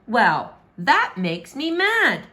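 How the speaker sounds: mad princess. Acted. Princess angry at father.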